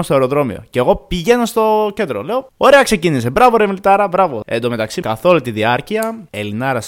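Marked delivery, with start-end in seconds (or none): 2.6-4.4 sarcastic self-praise. Retold or imitated. Left alone on the bus.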